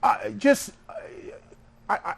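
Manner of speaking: laughing mock outrage. Jokingly complaining about the costume show.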